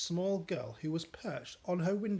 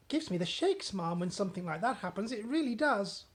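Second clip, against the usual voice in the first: higher, earnest servant; maid voice; 5 semitones higher, 3 dB louder than usual. Acted. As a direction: press the point gently.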